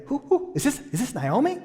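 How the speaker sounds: high, excited gossip, rising to a loud call; chattering townswomen. Acted. Preacher as the gossiping town women spotting Naomi, high and excited. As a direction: squeal the news to everybody.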